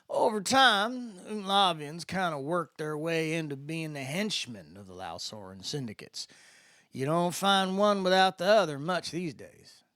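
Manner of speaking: a lightly voiced easygoing spacer; a hint of the drawling guide filling in the new kid; Landon's voice. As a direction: explain it in Landon's laid-back voice. Landon's voice in the story.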